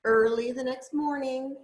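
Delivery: gentle, lilting picture-book reading; storybook read-aloud voice; reading to children. Acted. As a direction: read it like a bedtime story for a little one.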